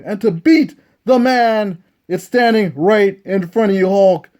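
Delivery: cocky trash talk, lightly voiced; lightly voiced Ric Flair. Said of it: "scared of the Nature Boy".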